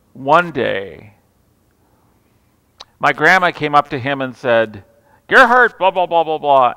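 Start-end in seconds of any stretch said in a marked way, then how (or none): 5.3-6.7 grandma's scolding. Retold or imitated. Grandma calling out to grumpy grandpa, nagging him. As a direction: nag him like a fed-up wife.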